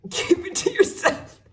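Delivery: high, loud joking outburst; mock scolding shout. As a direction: playfully yell it at the listeners, then laugh. Jokingly warns off critics, then laughs.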